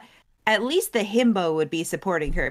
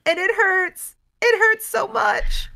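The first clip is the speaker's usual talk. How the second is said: much higher, louder, pained; aching grief; 12 semitones higher, 4 dB louder than usual. A narrator's reading. Retelling Chandra's heartbreak over Nissa, higher pained voice. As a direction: let the hurt crack through.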